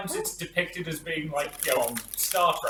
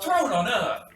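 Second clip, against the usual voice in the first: pilot's loud, higher-pitched oath; loud curse; 7 semitones higher, 8 dB louder, slower than usual. Acted. Janelle cursing from the front of the ship, loudly. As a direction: shout it out as a startled curse. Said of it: "a loud curse from the front of the ship".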